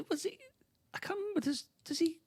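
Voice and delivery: high, giggly asking; laughing while asking. Real, not acted. Laughing while trying to remember.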